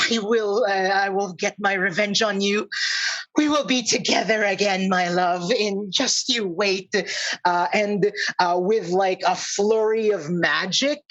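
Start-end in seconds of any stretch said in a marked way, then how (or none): 0.1-6.9 slightly raised, quick villain's vow; a hint of a scorned villainess; vengeful troll. Troll vows revenge before fleeing.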